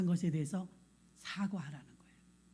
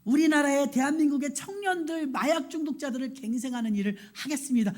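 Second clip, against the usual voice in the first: fervent vow; 4 semitones higher than usual. Retold or imitated. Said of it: "울면서 이제 딜을 한 거".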